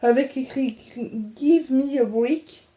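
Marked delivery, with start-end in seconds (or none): 1.4-2.7 slow, careful French-accented English; clumsy English accent. Real, not acted. Vlogger reading her T-shirt slogan in halting French-accented English. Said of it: "Excusez-moi pour mon accent de merde".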